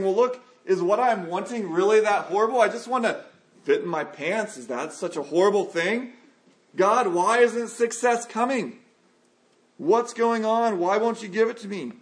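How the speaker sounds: pleading complaint. Pretend. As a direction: beg God in frustration. Believer pleading with God.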